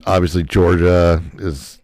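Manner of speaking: booming and loud; thunderous voice. Real, not acted. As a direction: boom out the prediction. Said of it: "God, my voice is thunderous".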